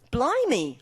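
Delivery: a hammed-up Cockney exclamation, high and loud; Cockney chimney sweep. Narrator gasping at the sight, mock Cockney chimney sweep. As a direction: blurt it like an excited Cockney sweep. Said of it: "agitated into speaking like a Cockney chimney sweep".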